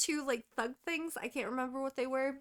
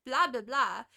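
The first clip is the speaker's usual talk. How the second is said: ordinary talk, nothing marked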